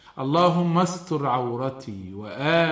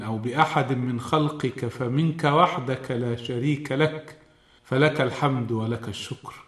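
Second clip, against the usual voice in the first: prayer. Acted. Sheikh reciting the evening supplication to listeners, prayerful.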